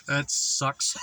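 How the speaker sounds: amused scoffing laughs; mocking laughter. Real, not acted. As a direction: laugh it off scornfully. Laughing at the tempter.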